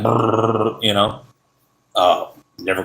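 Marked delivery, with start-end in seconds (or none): 0.0-0.8 rolled brrr for an engine brake; imitated Jake brake. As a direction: mimic a truck's engine brake rumbling. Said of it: "put the Jake brake on that thing".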